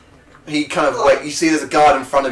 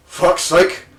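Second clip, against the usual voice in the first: angry curse; 5 semitones higher, 4 dB louder than usual. Acted. GM voicing an angry captain.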